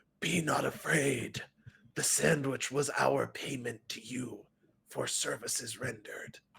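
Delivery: brief, hushed, disembodied whisper. Voicing a mysterious presence speaking to the players after a meal: whisper. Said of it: "you hear a brief whisper in the air".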